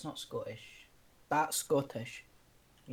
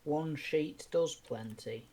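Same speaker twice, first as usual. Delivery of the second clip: ad voice; 2 semitones higher, 4 dB louder, slower than usual. Retold or imitated. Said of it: "That was actually an advert".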